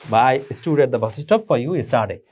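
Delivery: each word laid out very slowly; very slow, clear model sentence; slow example sentence. Shown as a demonstration. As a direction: dictate it slowly for learners. Teacher reads example sentence.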